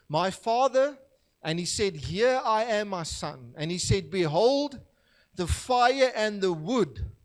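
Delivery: slow, measured Bible reading; scripture reading. Acted. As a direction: read the verses with weight, pausing. Reads the scripture passage aloud.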